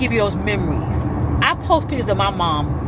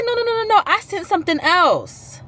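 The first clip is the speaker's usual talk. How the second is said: imitating aunt; 12 semitones higher than usual. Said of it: "She said".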